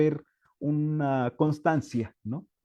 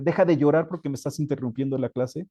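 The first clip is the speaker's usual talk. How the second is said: impatient teacher; faster than usual. Acted. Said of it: "Si volteamos a una parte negativa del docente".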